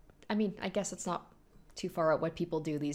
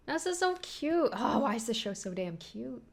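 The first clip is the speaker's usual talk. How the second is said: gushing; 4 semitones higher than usual. Real, not acted. Gushing over a cute scene.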